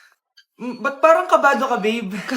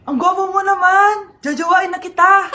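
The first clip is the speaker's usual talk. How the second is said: lovestruck gushing; 2 semitones higher, 5 dB louder than usual. Acted. Mother under a love potion gushing at the crush, loud and lovestruck. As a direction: gush over the crush.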